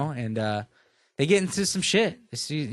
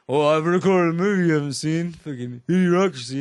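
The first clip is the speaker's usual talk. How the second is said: mock friend; 3 dB louder than usual. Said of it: "Zeb going".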